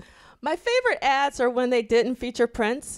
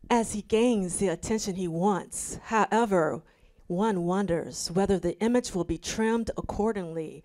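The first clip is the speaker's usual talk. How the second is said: measured, careful article read-aloud; composed reading-aloud voice. Real, not acted. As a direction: read it out evenly and deliberately. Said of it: "transition to my reading voice".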